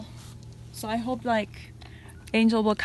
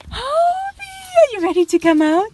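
high, louder pet voice; talking to a pet; 8 semitones higher, 7 dB louder than usual. Real, not acted. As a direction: call the bird out, high and eager. Calling bird Hobie out.

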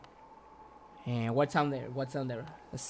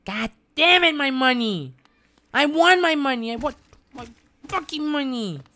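raised, frustrated outburst over lost money; angry rant; 3 semitones higher than usual. Real, not acted. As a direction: vent like a sore loser.

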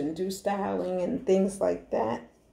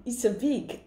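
put-on African accent; 3 semitones higher than usual. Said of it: "she said".

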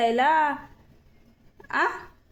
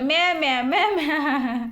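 lightly mimicked run of baby cries; imitating baby's bleat. Mother copying her baby's fussing, lightly teasing mimicry. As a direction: copy the baby's "myaa" whine in a teasing chain. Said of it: "तर इथं तुझं".

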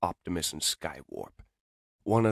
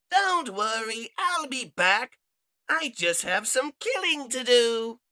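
menacing villain robot; 4 dB louder than usual. Acted. Villain leaving to kill.

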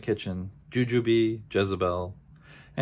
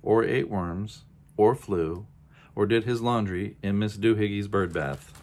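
scolding mother; 4 dB louder than usual. Acted. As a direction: build the complaint with rising irritation. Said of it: "she scolded".

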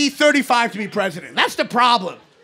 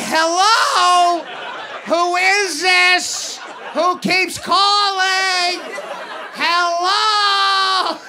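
put-on annoyed old-man hello; 5 semitones higher, much slower than usual. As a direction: bark hello into the phone, baffled and irritated. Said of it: "I'm just like".

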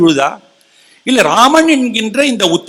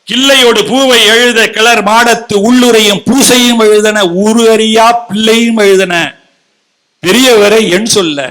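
sustained, declaimed Tamil poetry; verse recitation; 2 semitones higher than usual. Acted. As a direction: recite in ringing phrases, stretching the line endings. Recites the next lines of the poem.

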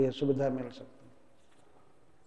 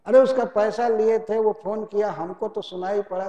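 mock deaf; 4 semitones higher than usual. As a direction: play innocent and hard of hearing. Debtor feigning to operator.

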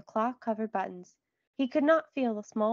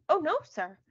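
higher, eager quick denial; quick answer; 5 semitones higher, 4 dB louder than usual. A narrator's reading. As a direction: hasten to deny it, pitch jumping up. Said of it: "John answered quickly".

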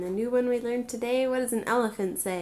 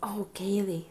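whisper. Real, not acted. Mother whispering her toddler's name. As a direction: breathe her name without voice.

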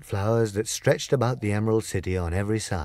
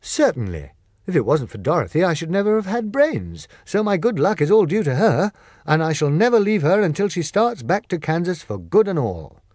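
high, loud devoted Scarecrow; swearing to stay by her; Scarecrow vowing; 8 semitones higher, 5 dB louder than usual. Acted. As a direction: loyal Scarecrow, loud and sure. Scarecrow declares.

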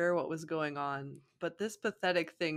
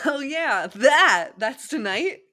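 high loud startled oh; sudden realization; 7 semitones higher, 11 dB louder, slower than usual. Acted. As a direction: caught off guard, remembering. Naruto remembers party.

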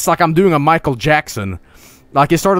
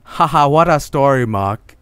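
Tommy Wiseau impression. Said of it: "looks like Tommy Wiseau now".

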